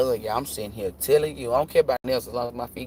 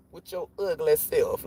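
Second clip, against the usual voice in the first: slow, softer undercut after the gush; grandma switching up; 6 dB quieter than usual. Retold or imitated. Grandma turns compliment into insult, dropping to a slow dig. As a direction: drop down and draw out the dig. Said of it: "she'll switch it up".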